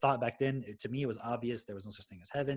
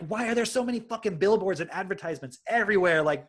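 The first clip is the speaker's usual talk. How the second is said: high, loud incredulous questioning; retold bewilderment; 7 semitones higher, 6 dB louder than usual. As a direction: stretch it out as if reality baffles you. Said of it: "that was weird to me".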